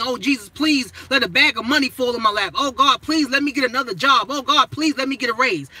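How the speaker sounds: mock a whiny beggar praying for money; sing-song mock begging to God; mock begging prayer. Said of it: "when you're begging".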